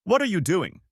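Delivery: loud, high angry yell. Acted. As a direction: shout it at him across the arena. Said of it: "he yelled".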